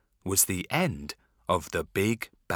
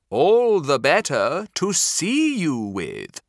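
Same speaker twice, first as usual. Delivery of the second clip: louder, higher wolf growling the answer; big bad wolf; 4 semitones higher, 6 dB louder than usual. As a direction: menace her as the wolf.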